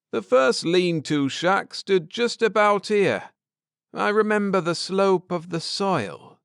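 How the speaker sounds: pleased with himself; lightly voiced Ned. A narrator's reading. Husband to wife after landing, lightly voiced.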